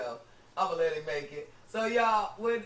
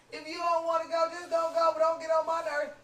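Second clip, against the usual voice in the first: scolding; 5 semitones higher than usual. Retold or imitated. Mother scolding son for stalling.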